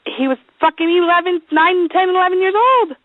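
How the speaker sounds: pitched high, protesting; exasperated insistence. Real, not acted. Defending herself over the kid's age, exasperated. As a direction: insist on it, voice climbing.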